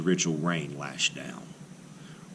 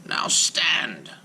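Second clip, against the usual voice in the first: hushed command; 7 semitones higher than usual. Acted. Rabbi orders golem in hushed voice.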